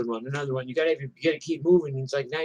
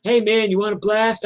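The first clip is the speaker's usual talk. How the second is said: much higher and louder buddy voice; friendly biker; 10 semitones higher, 8 dB louder than usual. Retold or imitated. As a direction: offer the drug like a pal. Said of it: "He's like".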